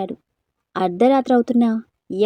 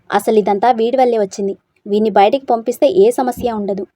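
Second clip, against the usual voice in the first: angry; 4 dB louder than usual. Acted. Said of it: "కోపంగా చెయ్యెత్తి".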